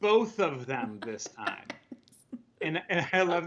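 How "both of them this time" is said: dry pointed aside. Retold or imitated. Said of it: "But then I'll say".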